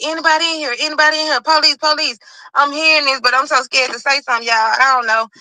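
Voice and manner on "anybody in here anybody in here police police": officers calling. Retold or imitated. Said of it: "That's what I'm hearing".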